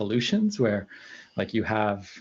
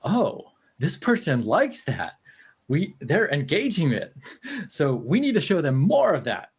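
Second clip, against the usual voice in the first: lightly voiced eager algorithm, higher pitch; algorithm's voice; 5 semitones higher than usual. Algorithm noting what the user engages with, lightly imitated. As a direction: imitate a delighted algorithm making a discovery. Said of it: "you're teaching the algorithm".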